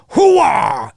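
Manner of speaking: a quick Hooah shouted like Al Pacino; mock Pacino catchphrase. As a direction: bark out the Pacino catchphrase in jest. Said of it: "is not an impression of Al Pacino".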